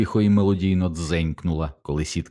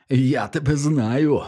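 put-on slow, higher, furious shout at the boys; frantic yell; 6 semitones higher, slower than usual. A narrator's reading. Milo frantically yelling at Teddy through the fence. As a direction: bellow it out of control. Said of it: "нестямно заволав Майло".

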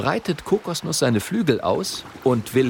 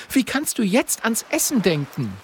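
high, indignant reproach; a girl's outraged question; Mathilda scolding; 10 semitones higher than usual. A narrator's reading. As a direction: scold the greedy friend.

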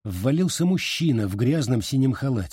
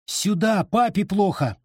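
urgent call; 9 semitones higher than usual. A narrator's reading. Calling for help in panic.

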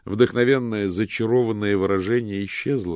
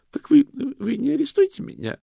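high, loud hopeful disbelief; disbelieving question; 9 dB louder than usual. A narrator's reading. Loretta asks the detectives, high and hopeful. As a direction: ask in hopeful surprise.

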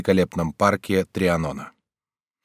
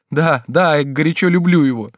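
high, loud, impassioned declaration; fervent avowal; 6 semitones higher, 5 dB louder than usual. A narrator's reading. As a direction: insist with a mother's fervour. Mother ardently protests her love. (пылкое, взволнованное признание)

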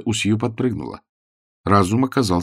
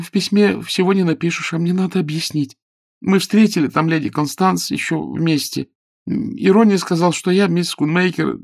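put-on raised, lighter girlish voice for Sue; young woman's voice; 9 semitones higher than usual. A narrator's reading. Sue confides in Galahad, in a higher girlish voice. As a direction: play the earnest young girl explaining herself.

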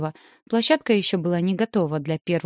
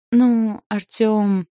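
holding back laughter; 4 semitones higher, 6 dB louder, much slower than usual. A narrator's reading. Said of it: "сдерживая смех".

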